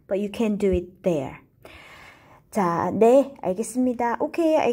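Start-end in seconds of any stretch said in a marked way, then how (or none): 0.1-1.4 slow contrast. Shown as a demonstration. Teacher explains the contrast slowly. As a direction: ease out the there. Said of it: "To emphasize the contrast".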